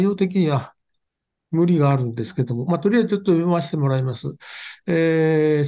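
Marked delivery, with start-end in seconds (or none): 2.7-4.4 rushing before cutoff. Real, not acted. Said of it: "時間も押してますので".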